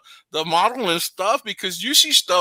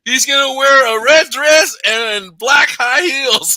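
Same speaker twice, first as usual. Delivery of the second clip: laughing tease; 3 semitones higher, 6 dB louder, much slower than usual. Pretend. Teasing announcement, laughing.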